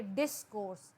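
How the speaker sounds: डिस्कोर्स with the force on डिस; stress on first syllable. Shown as a demonstration. Teacher demonstrating word stress, डिस्कोर्स stressed on डिस. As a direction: punch डिस, let कोर्स come out easily. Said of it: "डिस पे हमने ज़ोर लगाया".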